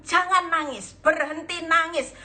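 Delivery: retold tough counselor's command; stern command. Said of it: "Saya keras".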